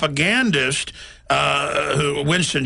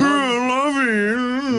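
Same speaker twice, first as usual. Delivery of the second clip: fake Atlantic accent; 10 semitones higher, much slower than usual. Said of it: "affected style to speak in an Atlantic fake British accent".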